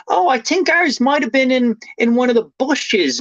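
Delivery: high-pitched mock musing voice; helpful neighbour. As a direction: imitate a neighbour offering an unhurried guess. Imitating neighbours guessing helpfully.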